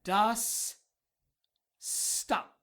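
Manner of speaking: a loud, high call to halt; sharp command. Acted. Kay stopping his servant with a loud call. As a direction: snap the order.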